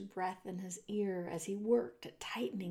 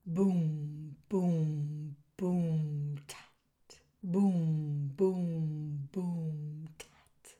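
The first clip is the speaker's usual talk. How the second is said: low, drawn-out booms, a barely voiced tat; deep drum booms ending in a tiny tat; ominous drum imitation; 5 semitones lower, much slower than usual. A narrator's reading. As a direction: beat out a slow, ominous drum with the voice. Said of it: "an ominous sound that went something like this".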